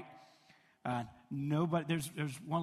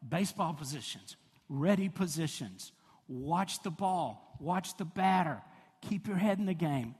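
coach calling; 3 dB louder than usual. Retold or imitated. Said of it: "we yell this almost every play".

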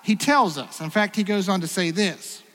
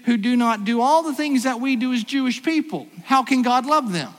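louder, higher rhetorical protest; indignant objection; 4 semitones higher, 3 dB louder than usual. Acted. Preacher voicing the doubters' indignant question. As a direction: press the question as the doubters would.

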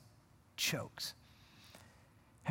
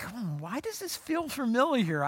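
puzzled musing; 4 semitones higher, 4 dB quieter than usual. Acted. Disciples puzzled by déjà vu.

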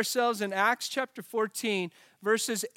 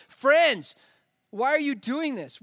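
raised, louder plea to a crowd; mild shout; 5 semitones higher, 5 dB louder, slower than usual. A narrator's reading. Apostles appealing to the crowd in a Bible reading, mildly shouted. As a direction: call out the first word high and loud, then ease off.

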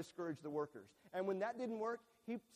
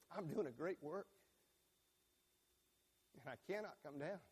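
hushed prayer; 6 dB quieter than usual. Pretend. Praying over child's bed.

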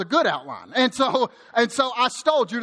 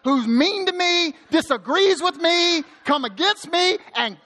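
high, indignant mock plea; hammed-up petition, pitch raised throughout; vengeful prayer; 7 semitones higher than usual. Preacher imitates David praying against his enemies, hammed-up and vengeful. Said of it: "sometimes he prays".

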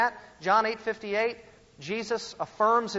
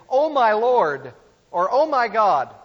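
slow, louder mock gasp of surprise; imitating a startled modern exclamation; 3 semitones higher, 7 dB louder than usual. Preacher mocks the JW reading, mock startled exclaim. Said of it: "when someone is startled or surprised".

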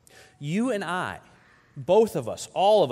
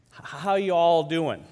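lightly voiced grandmother, louder and drawn out; Southern grandmother greeting; 5 dB louder, slower than usual. Nanny greeting visitors from the front porch, lightly imitated. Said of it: "she'd look at us and she'd say".

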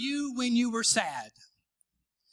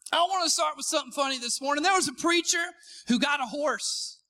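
quick put-on Houston accent; brisk Houston preacher impression; Joel Osteen; 4 semitones higher than usual. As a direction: open the joke in an imitated Houston accent. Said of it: "Is that Houston accent enough for you".

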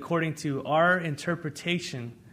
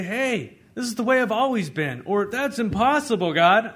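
arguing with God; 6 semitones higher, 7 dB louder than usual. Retold or imitated. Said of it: "argue with God and say".

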